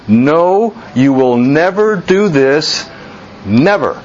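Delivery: firm stress on "No" and both "never"s; emphatic refusal. Retold or imitated. Peter refusing to let Jesus wash him, emphatic. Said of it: "for emphasis".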